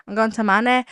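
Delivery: put-on playful go at a Manchester accent. Podcaster trying out an accent before a trip, mock Manchester accent. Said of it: "practice my Manchester accent".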